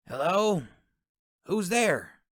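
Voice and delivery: lightly voiced accented woman calling; Sally's accent. A narrator's reading. Sally calls through her door to the knocker, accented. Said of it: "Sally's distinct accent".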